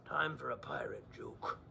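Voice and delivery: hushed whisper. Acted. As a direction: whisper it like a secret. Repeats the phrase unvoiced.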